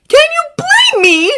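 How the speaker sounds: high, tearful shouted blurt. A narrator's reading. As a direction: blurt it out, crying. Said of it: "Izuku blurts out".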